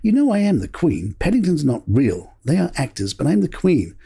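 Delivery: lightly imitated stern royal putting someone right; stern Queen. The Queen turning on the actor, lightly stern. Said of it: "turned sternly on him and said".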